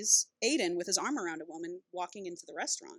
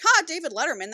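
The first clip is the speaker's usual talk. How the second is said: a short amused ha, pitched up; lightly amused scoff; amused laugh; 8 semitones higher, 5 dB louder than usual. Retold or imitated. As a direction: chuckle at the name. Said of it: "she was like".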